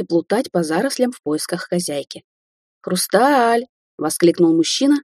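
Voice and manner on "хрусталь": high, gushing call of the name; eager puppy call; puppyish delight. Acted. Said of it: "вкладывая в свой голос как можно больше щенячьего восторга".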